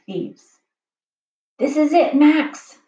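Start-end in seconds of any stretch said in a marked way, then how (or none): 1.6-2.8 higher, louder crook voice for Luther; a sly art robber gloating; thief voice. A narrator's reading. Thief Luther gloats to Max, higher and louder. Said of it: "said the first one".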